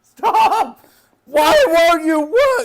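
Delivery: high, slow, whiny plea; pleading with a machine. Real, not acted. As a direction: beg the machine to obey. Pleading with the heater.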